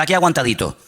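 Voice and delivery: self-pitying "aguantadito"; mock weary moan. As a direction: sigh out "aguantadito" like barely surviving. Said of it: "No, aquí no se habla así".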